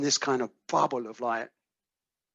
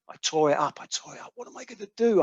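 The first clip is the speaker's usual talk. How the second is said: retold crying; 7 semitones higher than usual. Panicked caller asks what to do now, retold crying. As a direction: panicky plea climbing much higher. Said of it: "and she's crying, she's crying".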